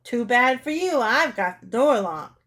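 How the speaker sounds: taunting, slowing at the end; rude call-out. Acted. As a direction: call out rudely through a door. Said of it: "laughed rudely and called out".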